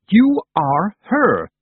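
high, loud, very slow spirit shout. A narrator's reading. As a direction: drag each word out in a roaring cry. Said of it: "the Wintersmith shouted".

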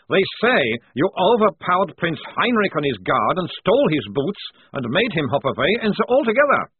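hint of mirth in an accented prisoner's voice; starting to chuckle. A narrator's reading. Prisoner recounting the prince's humiliation, tickled. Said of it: "he began to chuckle".

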